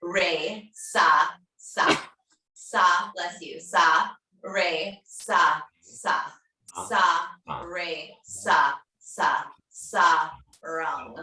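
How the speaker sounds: slow spoken mantra syllables, each one separate; recited mantra. Shown as a demonstration. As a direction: lay out sa, re, sa, sa one syllable at a time. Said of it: "So the mantra is".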